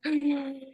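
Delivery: quick high gasp; acted gasp. Wife reacting to partner asking her to calm down, acted gasp.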